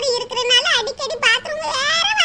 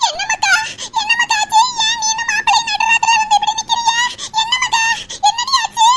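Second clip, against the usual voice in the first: high, loud worried questions; anxious mother; 6 semitones higher, 4 dB louder than usual. Acted. Mother pleading with her crying daughter, loud anxious questions. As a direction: demand to know what happened.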